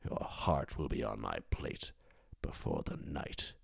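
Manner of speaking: a hint of a menacing queen, quietly venomous, slow in places; lightly voiced cold fury, dragging out the threats; vicious queen. Queen tearing apart the captive young queen, quiet vicious menace. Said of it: "quietly at first, but viciously tear her apart".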